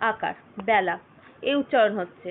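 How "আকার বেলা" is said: আকার বেলা, ending the spelling lower, bya-la; spelled out. Shown as a demonstration. Teacher spells out spoken বেলা for students. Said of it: "বয় দফলা আকার লয়ে".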